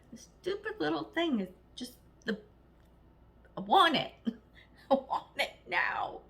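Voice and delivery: lightly acted toddler hissy fit; two-year-old tantrum. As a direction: ham up a whiny little kid who wants it now. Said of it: "I sound like a two-year-old having a tantrum".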